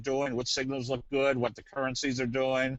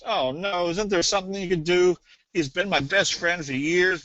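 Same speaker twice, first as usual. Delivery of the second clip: lightly acted upset pet owner, higher and louder; mock pleading; 4 semitones higher, 4 dB louder than usual. Pet owner begging vet to save her parakeet, mock pleading. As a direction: plead in mild mock dismay.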